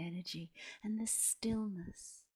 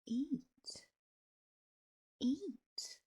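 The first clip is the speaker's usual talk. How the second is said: high-pitched, coaxing crone's insistence; insistent urging; 6 semitones higher than usual. A narrator's reading. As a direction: urge them on in a high voice. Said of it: "and insisted".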